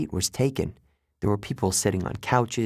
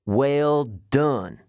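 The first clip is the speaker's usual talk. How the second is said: put-on British-like accent, patronizing praise; strange British accent; 3 semitones higher, 3 dB louder than usual. A narrator's reading. Guard praises the boy, strange British accent. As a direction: reward a pupil in an odd British accent. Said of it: "He had a strange accent".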